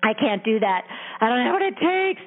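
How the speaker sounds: put-on a scared kid who feels out of its depth; terrified inner child.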